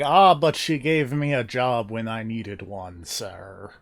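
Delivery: a loose, half-held attempt at the old butler's accent; a playful stab at the butler's accent that drifts toward Russian; imitating the butler's accent. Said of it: "This is my attempt at his accent".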